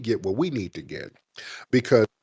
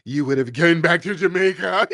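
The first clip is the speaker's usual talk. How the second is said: shouting; 5 semitones higher, 3 dB louder than usual. Real, not acted. Repeats jab louder over her.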